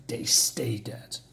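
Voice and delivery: low, slow and hushed; grim vow. Retold or imitated. Thor vowing to end the fight, grim and hushed. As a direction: drop it low and draw it out slowly. Acts out Thor's grim threat.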